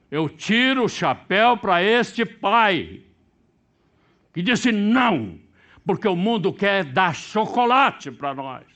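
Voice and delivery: loud, high, slow, emphatic proclamation; fervent preaching. Acted. Preacher praising the father to congregation, slow loud proclamation. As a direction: proclaim it slowly with conviction.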